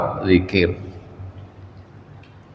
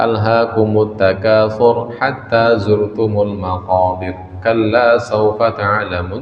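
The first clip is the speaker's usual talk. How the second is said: Quran recitation; slower than usual. Shown as a demonstration. Preacher recites Quran verse.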